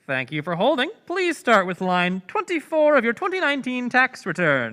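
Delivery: scripted phone agent greeting; call center agent voice. Acted. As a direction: read it like a hold-line agent. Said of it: "The voice of a call center agent comes on".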